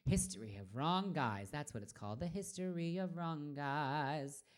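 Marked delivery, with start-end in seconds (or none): 2.2-4.4 drawn-out title. Real, not acted. Singer looking up a requested song, drawn-out. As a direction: stretch out the words, half to yourself. Repeats title while searching for it.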